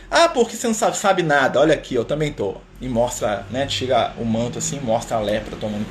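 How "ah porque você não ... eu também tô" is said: mock rebuke. Francisco mirrors leper's words.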